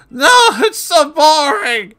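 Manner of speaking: shrieking high demon howl. Acted. Possessed Christine howling at the priests.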